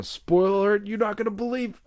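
high-pitched hyped-up teaser; mock spoiler teaser. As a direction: tease the twist with put-on excitement. Mock spoiler teaser before bedtime.

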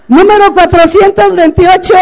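número cantado fuerte, agudo y lento; anuncio a gritos. Pretend. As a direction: anuncia el premio a todo el público. (anuncio gritado, agudo y pausado)

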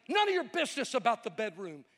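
mock outburst, rising in pitch; freaking out. Irate seatmate tells off the evangelist, mock freak-out. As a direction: imitate an indignant man freaking out. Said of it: "He's freaking out".

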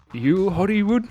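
mock shouted question. Podcaster retelling the sailor's line as a rising mock shout. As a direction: call out the name as a question. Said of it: "He's like".

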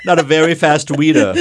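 cartoon bird accent, laughing; squeaky Tweety Bird impression. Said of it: "What accent are you doing right now?".

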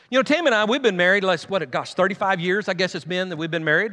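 halting, losing the thread, groping for the number; fumbling first try. Shown as a demonstration. Pastor to church, fumbling the years married. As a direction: stumble through it like you lost count. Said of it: "let me try that again".

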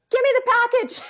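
a sudden high squeak, all in a rush; squeaky flustered demand. Retold or imitated. Flustered at the FedEx man, high squeak. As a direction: blurt it out high and panicked.

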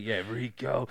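gritted teeth. Retold or imitated. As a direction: bite down on the name like a hard sergeant. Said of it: "through gritted teeth".

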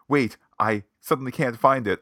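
flustered and high; panicked searching; harried. Retold or imitated.

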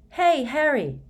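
high call across a room. A narrator's reading. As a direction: call out from far away. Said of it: "Hermione called from the other end".

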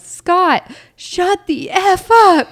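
high, loud mock dad yell; imitated angry yell. Dad yelling out the window at his noisy son, mock furious yell. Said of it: "goes out to the window and yells".

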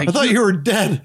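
high-pitched mimic; high squeaky coworker. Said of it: "the chick".

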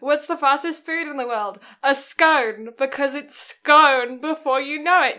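put-on posh British, long-O "scone". Shown as a demonstration. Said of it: "you sound so posh when saying that joke".

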